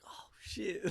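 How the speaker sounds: high-pitched imitation of a delighted kid; gleeful disbelief. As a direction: act out amazed glee, pitched right up. Brother gleeful after fooling mom.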